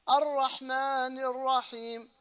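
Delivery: slow "Ar-Rahman Ar-Rahim" with long rolled r; deliberate "Ar-Rahman Ar-Rahim", ras doubled; shadda on ra. Shown as a demonstration. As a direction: trill and hold each r in "Ar-Rahman Ar-Rahim". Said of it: "put a shadda on the ra".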